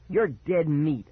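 restrained shout of a threat; angry shout. Acted. Child threatens brother to his face, mildly shouting. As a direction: threaten with a touch of anger. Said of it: "I shouted in his face".

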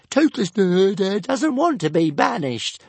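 high, loud stuttering dragon wail. A narrator's reading. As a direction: plead tearfully. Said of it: "wailed Toothless".

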